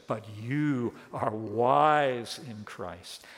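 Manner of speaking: slow, low mock praise; slow, lightly sarcastic flattery; ironic. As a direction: draw out the compliment with irony. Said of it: "Paul's speaking ironically here".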